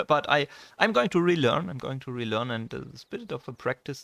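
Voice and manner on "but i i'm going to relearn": louder and higher, laughing through the promise; laughing determination. Real, not acted. Vlogger promising viewers he'll relearn English, laughing loudly. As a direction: laugh it off, then insist brightly.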